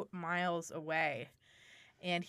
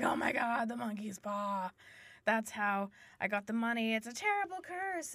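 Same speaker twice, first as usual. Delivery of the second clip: mock gasp of horror; 4 dB quieter than usual. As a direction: act a quiet, dawning horror. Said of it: "so he gasps 'cause he's like".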